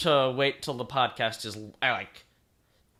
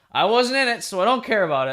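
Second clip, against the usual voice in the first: smug, mocking dismissal; 6 semitones higher, 3 dB louder, faster than usual. Real, not acted. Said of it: "the most dick thing I could have said".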